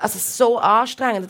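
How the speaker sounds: slow, drawn out through a laugh. Real, not acted. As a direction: laugh while admitting how tiring it was. Laughing about exhausting kiosk job.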